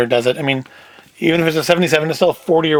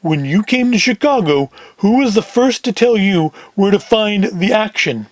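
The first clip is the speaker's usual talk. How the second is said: lightly put-on heavy; a hint of a big man pressing for answers; deeper Big Sam voice; 3 semitones higher than usual. Big Sam questioning Rabbit Ears, lightly put-on voice. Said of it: "Big Sam in the deeper voice".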